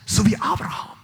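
sudden hushed whisper. Acted. Preacher hushing the crowd before Abraham's example, whispered. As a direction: breathe it like a secret.

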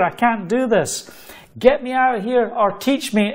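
retold desperate plea, pitched high; proclaiming. New worker confessing fear to God, proclaiming. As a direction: plead upward in emphatic short bursts. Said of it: "here I am proclaiming".

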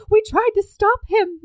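mock fluster, voice up high; flustered heroine. Retelling Abby apologizing to the aunt, mock fluster.

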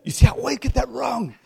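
high-pitched self-chiding yelp; mock exasperation. Real, not acted. Catches his own misquote before congregation.

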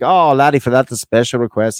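light stage-Irish leprechaun; dodgy Irish lilt; comic Irish accent. Acted. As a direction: put on a hint of Irish brogue. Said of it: "don't even know if that's Scottish or Irish".

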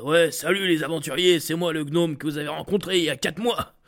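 put-on gnome greeting; character voice of a chirpy gnome. Shown as a demonstration. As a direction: hail the adventurers in a cartoon gnome voice. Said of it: "un gnome parler avec cette voix-là".

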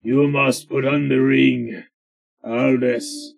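slow, lightly voiced dream figure; a hint of a slow, commanding dream voice; man from the dream. Player retells the dream to the party, slow and lightly put-on voice. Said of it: "This is a guy who talks like this".

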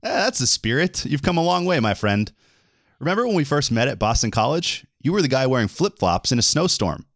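playful stagey delivery; scripted buddy banter. Acted. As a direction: reminisce like a cheesy show host. Reads scripted part to co-host.

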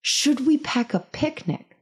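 high, slow mock-perky question; imitated eager mom. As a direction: mimic the mom, drawing it out. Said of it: "And then she said".

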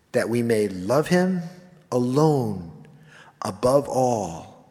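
slow, solemn prayer reading. Acted. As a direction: read it slowly like a heartfelt prayer. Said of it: "just listen to this".

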